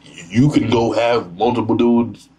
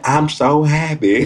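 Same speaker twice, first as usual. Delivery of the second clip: imitated voice; 7 semitones higher, slower than usual. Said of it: "She said".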